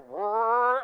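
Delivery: imitated engine revving. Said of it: "So I, I go".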